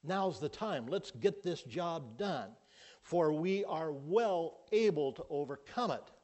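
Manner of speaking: rally the people to go now; a hint of a bold warrior pushing forward; Caleb urging. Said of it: "Caleb is saying".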